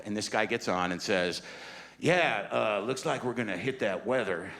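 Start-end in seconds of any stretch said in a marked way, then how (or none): 2.0-4.5 cocky pilot. Retold or imitated. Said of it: "what's with his attitude? Why is he so cocky?".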